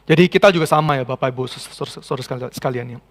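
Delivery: hoarse, rough-throated sermon voice. Real, not acted. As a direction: speak through a hoarse throat. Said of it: "suara saya serak banget ya".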